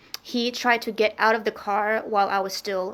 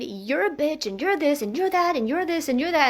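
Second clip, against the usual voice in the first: higher-pitched mocking replay of a shouted tirade, no real shouting; imitated cussing rant; 6 semitones higher than usual. Woman imitating her ex cussing at her, mock rant. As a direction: rattle off his insults in a raised, repetitive tune. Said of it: "he was just shouting and cussing at me".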